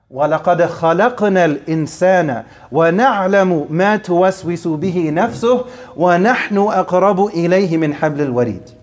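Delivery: measured, melodic Quranic chant in Arabic; Quran recitation. Acted. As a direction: recite the verse as in tajweed. Recites full verse in Arabic.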